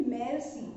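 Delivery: मेर्सी with a French open e and rolled r; teacher modelling मेर्सी as mair-see; say merci. Shown as a demonstration. Teacher showing students how French मेर्सी sounds. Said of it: "यहाँ पे हम इसको क्या बोलेंगे?".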